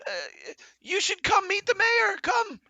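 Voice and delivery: high, loud thankful call over the shoulder; grateful shout. Acted. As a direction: yell thanks while running away. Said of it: "they yell over".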